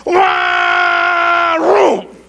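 long high engine wail ending in a rev; imitated chainsaw roar. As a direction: mimic a saw revving, then dying. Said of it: "and said it was going".

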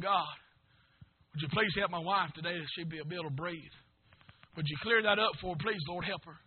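quiet murmured plea to God; hushed prayer. Retold or imitated. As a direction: pray it quietly like in the bus. Retold quiet prayer for wife.

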